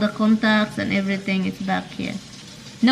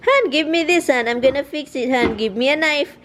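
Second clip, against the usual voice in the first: imitating husband; 5 semitones higher than usual.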